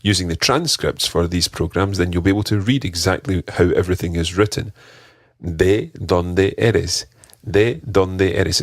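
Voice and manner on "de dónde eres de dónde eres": ¿De dónde eres? with soft, breathy D sounds like th in "the"; slow, with the D in "dónde" barely touching the teeth; ¿De dónde eres? said slowly with soft D sounds; soft Spanish D. Shown as a demonstration. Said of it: "It's a very soft D".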